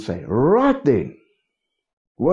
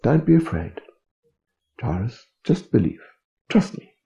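gently voiced tenderness, dropping lower; loving reassurance; 3 semitones lower than usual. The Lord to devastated Jairus, tender and reassuring. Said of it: "with his eyes full of liquid love".

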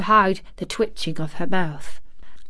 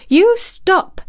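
sharp high near-shout; almost shouting; 11 semitones higher, 6 dB louder than usual. A narrator's reading. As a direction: snap it out, nearly shouting. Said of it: "she almost shouted".

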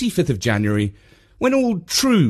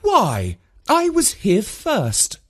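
mild retort; 10 semitones higher, much slower than usual. A narrator's reading. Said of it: "retorted Mum".

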